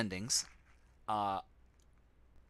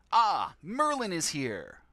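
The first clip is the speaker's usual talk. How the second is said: much higher, commanding wizard voice; Merlin; 11 semitones higher, 3 dB louder than usual. Acted. Wizard summoning the player, commanding and high-pitched. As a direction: boom out orders like a pompous sorcerer. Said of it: "I am your master Merlin".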